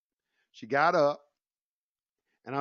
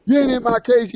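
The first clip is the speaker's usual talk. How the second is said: mock angry judge yelling from the bench; retold yelling judge; 10 semitones higher than usual. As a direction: bark it like a furious judge. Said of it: "started hollering at me".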